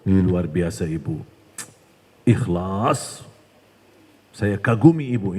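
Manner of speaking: low, flattering devil's voice; butter her up like a tempting devil; lightly voiced devil flattering the mother; Satan flattering. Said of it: "Ini bisikan syaitan loh ini".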